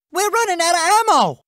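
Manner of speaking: high, pressing combat report; acted alarm over supplies; urgent warning. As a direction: warn the commander urgently. Warning that ammunition runs out.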